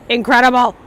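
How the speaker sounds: loud, high burst of amazement; big, high, impressed shout; amazed exclamation. Real, not acted. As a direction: exclaim it loudly, thoroughly wowed. Marvels at French invention.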